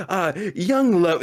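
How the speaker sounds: drawn-out mock wistfulness; dreamy soliloquy. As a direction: stretch it out like an oblivious romantic. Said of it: "like, his, like, little soliloquy".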